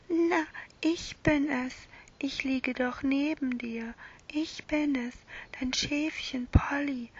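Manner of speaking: put-on a tiny, gentle stuffed lamb speaking to the boy; small lamb voice. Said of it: "kleine, leise Stimme".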